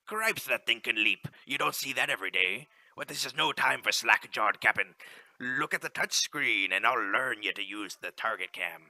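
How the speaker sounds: ship captain. Acted. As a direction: call it out like a captain on deck. Captain explains target cam.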